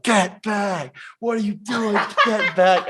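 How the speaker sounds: high-pitched mock shout from the guard; imitated border guard yell. Border guard leaning out the window at their car, mock yelling.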